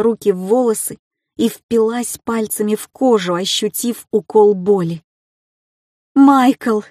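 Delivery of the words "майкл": loud, higher desperate call. A narrator's reading. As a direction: call for help with everything you have. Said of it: "не сдерживаясь больше, позвала я".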